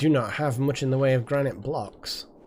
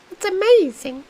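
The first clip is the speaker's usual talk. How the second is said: mock amazement; 6 dB louder than usual. Mock delight at six likes.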